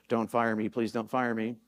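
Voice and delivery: mock pleading coach. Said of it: "The communication was this".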